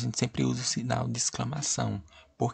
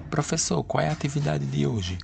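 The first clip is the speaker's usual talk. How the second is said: higher, calling student question; student asking; 5 semitones higher than usual. Shown as a demonstration. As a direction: call out to the teacher. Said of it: "Ponto de interrogação".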